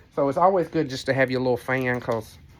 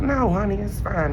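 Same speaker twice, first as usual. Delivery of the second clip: imitated lady; 8 semitones higher than usual. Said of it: "she's like".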